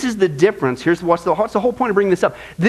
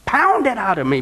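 slow, higher, intense plea; pleading David; 4 semitones higher than usual. Retold or imitated. David begging God for a hard scrubbing, slow and intense. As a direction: beg to be beaten clean. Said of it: "So David's saying".

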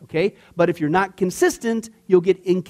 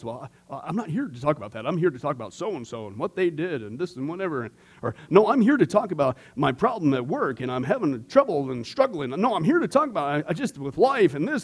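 mock counselee excuses; 3 semitones lower, 3 dB quieter than usual. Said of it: "usually it's the same response".

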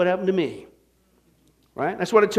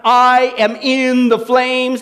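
mock cry of despair; 2 semitones higher, 4 dB louder, much slower than usual. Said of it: "crying out".

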